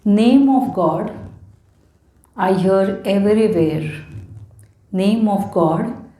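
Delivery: slow, measured poetry reading with pauses; poem recital. Acted. Poet sharing offerings to Lord Ganesha, slow recital. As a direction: recite devotional verse slowly, phrase by phrase. Reads own devotional poems aloud.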